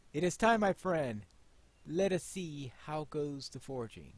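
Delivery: solemn, measured hero reading; lightly voiced Aragorn. Player voicing Aragorn to Pine Leaf, lightly solemn. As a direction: read it like a resolute king-to-be. Reads Aragorn's quest dialogue.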